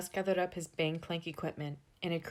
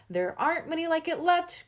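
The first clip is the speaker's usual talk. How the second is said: much higher, louder ghost voice; ghostly cry; 10 semitones higher, 8 dB louder than usual. A narrator's reading. Gus pleads with the unhearing Mister Scott, high ghostly cry. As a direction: call it out like a hovering ghost. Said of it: "cried Gus in ghostly language".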